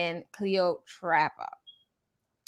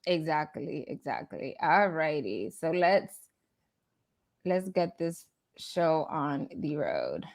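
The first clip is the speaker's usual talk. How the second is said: hushed, breathy whisper; 4 semitones lower, 8 dB quieter than usual. Real, not acted. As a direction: drop to a near whisper. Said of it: "Girl, why are you whispering?".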